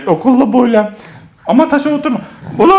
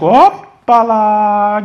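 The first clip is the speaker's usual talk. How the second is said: playful whoop; 3 semitones lower, much slower than usual. Real, not acted. Playful cheer as baby drinks.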